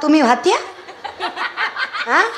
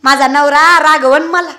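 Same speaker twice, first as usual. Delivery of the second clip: high coy woman's voice; voiced village woman; 6 semitones higher, 4 dB louder than usual. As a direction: play a shy wife refusing. Woman voiced in kirtan story. (गावरान बाईचा लाडिक आवाज)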